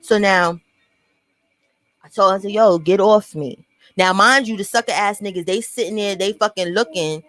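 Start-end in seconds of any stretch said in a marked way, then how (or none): 2.5-3.7 calm warning. Retold or imitated. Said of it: "If I'm talking to you like that".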